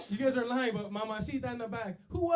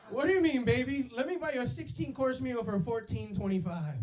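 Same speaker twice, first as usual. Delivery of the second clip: mock charming pitch to a date, a bit louder; smooth date talk; 4 semitones higher, 4 dB louder than usual. Mock smooth line to his date about jail food. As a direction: sell a cheap jail meal like it's fancy. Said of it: "take girls to the jail visiting room".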